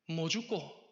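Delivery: short question with a Gyeongsang lilt; Gyeongsang dialect. Retold or imitated. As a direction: imitate God speaking Gyeongsang Korean. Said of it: "경상도 말로 말씀하시는". (경상도 사투리로 툭 묻기)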